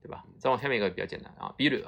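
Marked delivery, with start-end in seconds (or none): 1.6-1.9 ビール said with a short first vowel, "biru". Shown as a demonstration. Teacher warning students off the long vowel, short "biru" for ビール. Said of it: "这个不要念成长音了啊".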